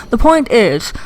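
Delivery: breathy, airy after a tooth pulled. Real, not acted. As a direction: talk airy with a sore mouth. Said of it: "I'm sorry if I sound a little airy, I had a tooth pulled".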